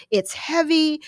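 "It's heavy" whined high and pushed; naggy complaint. Shown as a demonstration. Wife nagging husband about the trash, "It's heavy" whined high. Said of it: "comes across as sort of naggy".

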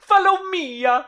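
high squeaky cartoon plumber; Luigi voice. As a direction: video game hero voice. Luigi impression repeating.

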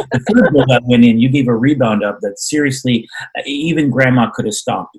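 blunt critique. Retold or imitated. Mom finally gives blunt critique.

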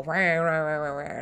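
rumbling mechanical rah rah; playful imitation of a noisy heater; imitated heater noise. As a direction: mimic the heating system clanking. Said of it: "our heating system go".

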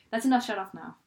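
rushed, no pause between the sentences; fast, no breaks. Retold or imitated. Friend repeating Jason's line, crammed together fast. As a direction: say it all as one word. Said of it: "he said it so fast, like, with no breaks".

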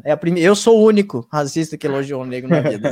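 talking through real laughter; laughing disbelief. Real, not acted. Joking he's the only racist praising Black people, laughing. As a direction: laugh at the absurdity while protesting.

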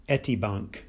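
Etibank said as ETT-ee-bonk; Turkish name. Shown as a demonstration. Lecturer giving the bank's Turkish name, Etibank as ETT-ee-bahnk. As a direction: say Etibank with an open "ah" in bank. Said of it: "I think in Turkish it's".

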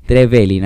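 "Trevelin" said with the stress on the second e, tre-VE-lin; "Trevelin", lean on the second e, tre-VE-lin. Shown as a demonstration. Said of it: "acento en la segunda E". ("Trevelin" con el acento en la segunda e)

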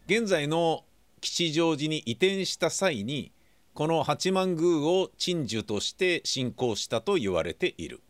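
mock-serious secret agent briefing read over music; spy mission briefing. Radio host reading the listener mail as a mock-serious mission briefing. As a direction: read it like a spy's mission orders, deadpan.

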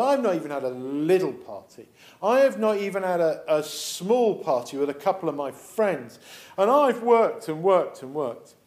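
mildly cross, emphatic complaint; cross brother. Acted. Older brother complaining about the party, mildly cross. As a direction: grumble it with a touch of indignation. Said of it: "the brother is still cross".

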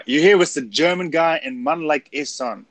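tentative try at London swagger; first try with swagger; attempted swagger. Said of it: "There you go".

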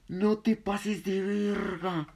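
slow, high, crying with laughter; laughing so hard the words stretch out; laughing plea. Retold or imitated. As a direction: choke the words out through laughter. Laughing at friend's joke.

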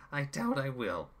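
high, gloating villain voice with a grin; grinning villain. Acted. Chaos grins at Jim, high and gloating. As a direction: purr it out with a grin.

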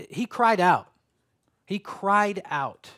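CRIED OUT punched, the repeat drawn out; emphatic crying out. Shown as a demonstration. Preacher contrasting Jesus with soft-spoken image, stress on "cried out". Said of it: "the soft".

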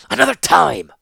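loud, high angry snap; growled dismissal. Acted. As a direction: cut him off in anger. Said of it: "Malzra growled".

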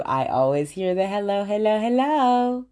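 a hint of a fan echoing the greeting; imitated fan. Fan telling the speaker they hear her greeting. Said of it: "that be like".

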